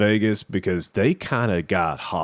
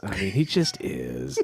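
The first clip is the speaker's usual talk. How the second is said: laughing; 6 dB quieter, slower than usual. Real, not acted. Laughing at his own insult.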